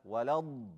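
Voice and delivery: Walad ending in a long, heavy d; dragged dad. Shown as a demonstration. Teacher repeats it correctly, Walad with a dragged dad. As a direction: hold the d of Walad thickly. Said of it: "Needs the drag".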